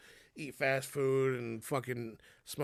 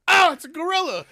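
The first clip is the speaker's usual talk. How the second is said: laughing quote; 14 dB louder than usual. Retold or imitated. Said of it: "He literally just goes".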